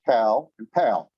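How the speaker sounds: pal and pal, plain p then aspirated p, slow; Korean p contrast. Shown as a demonstration. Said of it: "Here's one I tried this morning".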